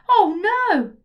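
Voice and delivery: put-on a boy realising something awful; sudden loud boyish dismay; alarmed Oh no. Trig realises he forgot jumper.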